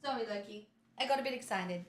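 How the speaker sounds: soft apology. Real, not acted. Streamer apologizing to her dog Loki, soft and quiet. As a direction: hush down so the dog settles.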